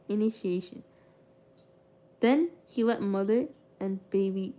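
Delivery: steady, measured read-aloud of a biography; story narration. A narrator's reading. Streamer reading a book chapter aloud to chat, measured narration. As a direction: narrate the history evenly, like a reader on stream.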